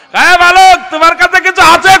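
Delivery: high, loud bandit challenge; robber shouting. Acted. Robber shouting at the young saint on the road. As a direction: bark at the boy like a bandit chief.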